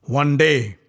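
bursting with rage. Acted. Bhima raging at Duryodhana's insult, roaring. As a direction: roar it out in fury. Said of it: "Bursting with rage".

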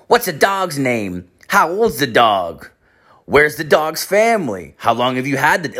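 high, imitated kid questioning; little kid mode. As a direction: mimic a child firing off curious questions. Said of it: "little kid mode".

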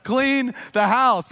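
put-on exasperated kid. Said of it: "I'm like".

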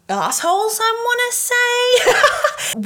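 high laughing aside. Real, not acted. Cheeky aside about exes, laughing. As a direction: laugh it off as you say it.

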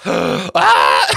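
loud high shout breaking into laughter; shocked cry into laughter. Retold or imitated. Both players aghast at the zombie roll, shout into laughter. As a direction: yell in disbelief then crack up. Opponent's leader turned zombie.

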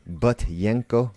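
Butyenko said slowly, each syllable clear; slow careful pronunciation. Shown as a demonstration. Teaching listeners a name, slow careful pronunciation. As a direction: spell out Butyenko with your voice. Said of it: "That's how you spell it".

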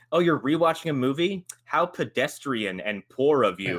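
mock her like a snob; snooty mockery. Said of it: "She's like".

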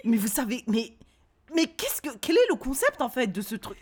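incredulous retort. Retold or imitated. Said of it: "j'ai dit".

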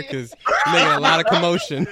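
laughing shout. Retold or imitated. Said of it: "He's like".

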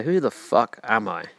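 drawn out slowly, each word weighed; slow it down and lean on it; slow, emphatic. Shown as a demonstration. Podcaster to listener asking themselves, slow and emphatic. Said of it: "Then you say".

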